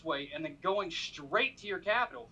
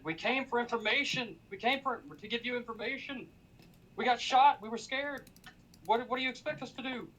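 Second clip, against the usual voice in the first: pleading yell; 5 semitones higher than usual. Retold or imitated. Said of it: "I just yell".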